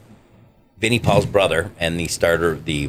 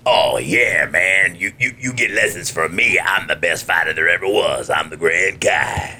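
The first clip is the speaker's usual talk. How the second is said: Grand Kai; 3 semitones lower than usual. Shown as a demonstration. Grand Kai bragging to his students like a DJ. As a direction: lay it back like an old-time radio DJ. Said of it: "And his voice is".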